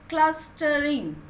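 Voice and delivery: Clustering at a slow, even pace; said slowly. Shown as a demonstration. Teacher to pupils, says Clustering slowly. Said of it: "So with three syllables".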